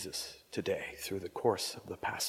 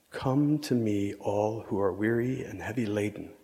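proclaimed promise; 6 dB louder than usual. Acted. Preacher voicing Jesus' promise to the congregation, proclaimed loud. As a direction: call it out across the congregation. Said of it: "promise of Jesus".

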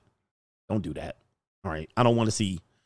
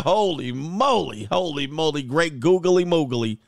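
retold amazement. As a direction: stretch out each exclamation in wonder. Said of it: "I said".

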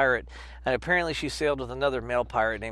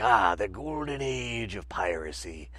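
mock romantic; 4 semitones lower, slower than usual. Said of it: "and like".

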